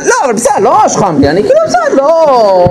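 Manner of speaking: a wife's high, giggly climb-down, hammed-up; high mock wife voice. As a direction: squeak it out high as the backing-down wife, laughing. Wife backing down, voiced by lecturer.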